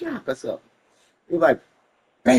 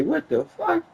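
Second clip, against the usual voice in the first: much higher startled cry; dazed surprise; 14 semitones higher than usual. Retold or imitated. Waking up after hitting the tire, higher startled cry. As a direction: wake up shocked. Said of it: "I say".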